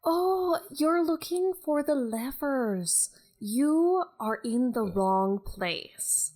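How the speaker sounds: light Scottish lilt; Scottish accent. Acted. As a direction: keep a mild Scottish accent. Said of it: "this is a very Scottish Beth".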